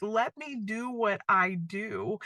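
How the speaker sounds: slow, gentle, fatherly; unhurried, tender reassurance; lovingly. Retold or imitated. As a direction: say it slowly, like a loving father to his daughter. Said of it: "but, like, just lovingly".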